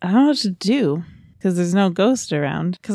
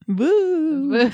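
high, drawn-out joking boo; mock ghost boo; 6 semitones higher than usual. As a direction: imitate a silly ghost. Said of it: "Is that what the ghost says?".

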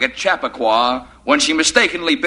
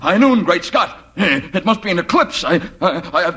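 alarmed; 3 semitones higher than usual. Acted. Alarmed at darkness.

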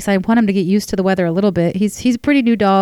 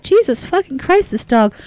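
exasperated; 4 semitones higher than usual. Retold or imitated. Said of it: "I thought".

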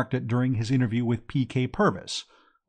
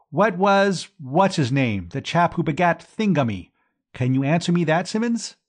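louder, higher, wobbling tipsy challenge; blustering drunk quiz; 5 semitones higher, 3 dB louder than usual. Acted. Drunk Gussie grilling the prize-winner, loud and blustering. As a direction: bellow the question at the boy.

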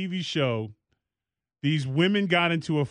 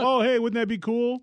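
higher, bright gushing mock-cheer; mock excited gush; 8 semitones higher than usual. Mocking a couple who love cemeteries, gushing mock delight. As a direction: gush it like a giddy cemetery romantic.

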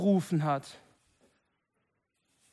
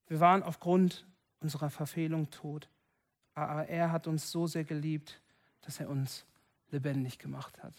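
softer repeat; 3 semitones lower, 5 dB quieter than usual. Shown as a demonstration. Repeats verse more softly.

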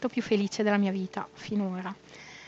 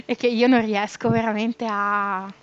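trembling voice. Real, not acted. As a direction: voice shaking with real emotion. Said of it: "vi giuro adesso mi trema la voce".

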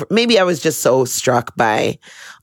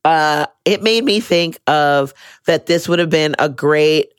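ordinary delivery

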